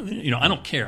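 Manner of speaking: put-on a light, half-accidental Minneapolis accent. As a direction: slip into a faint Minneapolis accent. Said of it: "I went in a Minneapolis accent there".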